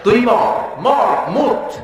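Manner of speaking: commanding shout. Acted. Allah commands angel to die.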